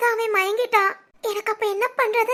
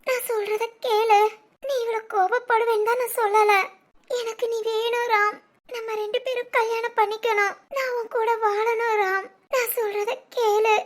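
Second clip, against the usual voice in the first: crying plea. Acted. Girlfriend tearfully begs boyfriend.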